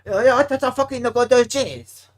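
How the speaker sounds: slow, high mock Asian-accent yell; drawn-out caricatured Asian accent, loud; hammed-up cheer in an Asian accent. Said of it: "You like my Asian accent".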